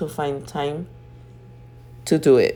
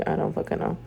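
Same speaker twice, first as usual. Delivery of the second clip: muttered whisper aside; under breath; 6 dB quieter, faster than usual. Real, not acted. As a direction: mutter it to yourself.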